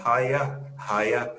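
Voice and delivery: trying on a Scottish greeting; put-on Scottish accent, lightly done; fake Scottish accent. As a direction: greet the barman in mock Scottish. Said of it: "my fake Scottish accent".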